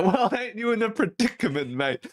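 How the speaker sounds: high-pitched teasing Aussie; broad Aussie accent. Retold or imitated. Rescuer arriving to find car stuck, broad Aussie accent. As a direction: imitate a broad Aussie bloke ribbing someone. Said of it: "broad Aussie accent".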